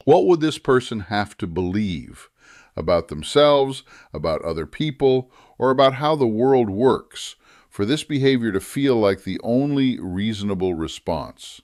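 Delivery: measured, emphatic phrasing of a key question; deliberately slow. Shown as a demonstration. Teacher giving writers the key question, said slowly and deliberately. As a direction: spell out the question with care, weighting key words. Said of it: "so I'll say it slowly".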